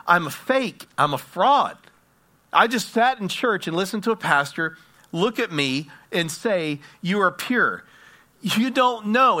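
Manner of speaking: forceful, emphatic self-accusation, retold; distraught confession. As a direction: act out a woman insisting she's a fraud. Distraught woman confesses to her sister.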